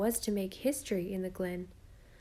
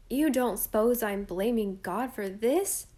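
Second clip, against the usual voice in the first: slow, stern and louder rebuke; a boy sternly putting his sister in her place; 2 semitones higher, 5 dB louder, slower than usual. Acted. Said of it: "said Jem sternly".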